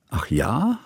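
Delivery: breathless whispered aside; whispered surprise. A narrator's reading. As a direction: whisper it to yourself, taken aback. Johanna surprised, under breath. (überrascht geflüstert, nur für sich)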